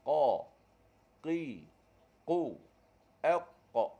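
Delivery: "Qa, qi, qu" tanpa angin; qaf bersih. Shown as a demonstration. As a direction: suara bersih tanpa hembusan. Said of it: "Bersih suara kita". (qaf bersih tanpa angin)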